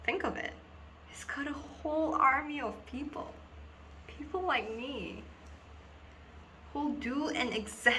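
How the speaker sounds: earnest schoolgirl confiding, halting with long pauses; Dina. Acted. Schoolgirl tells two boys about being hypnotized in assembly, dramatic confiding. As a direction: confide a dawning, troubling realization in dramatic monologue.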